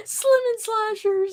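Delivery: slow, high laughing catchphrase. Acted. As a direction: giggle it out slowly.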